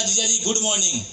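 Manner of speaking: a lightly voiced sugary hello to his brother-in-law; butter him up gently on the phone; calling his brother-in-law with a mock-sweet good morning; sweet greeting. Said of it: "बड़े प्यार से बोला".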